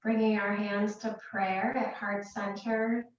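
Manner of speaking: calm, unhurried meditation guidance with long pauses; guided meditation. Real, not acted. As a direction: guide them gently into relaxation, leaving space between phrases. Leads a meditation.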